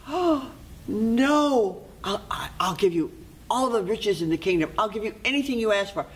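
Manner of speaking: high acted gasp, stumbling into a plea; panicked pleading. Queen begs to keep baby.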